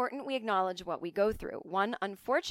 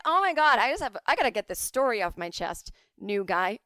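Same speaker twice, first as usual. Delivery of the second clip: gossipy eager soldier; 3 semitones higher, 8 dB louder than usual. Retold or imitated. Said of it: "They're like".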